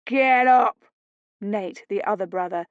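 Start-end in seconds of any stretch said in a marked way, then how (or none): 0.1-0.9 a rough shout, pitched up. Acted. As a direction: yell the order in her face.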